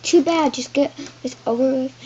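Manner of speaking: loud impatient yell; mock yell from a husband. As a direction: bark it at her, hurrying her. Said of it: "Harold yelled".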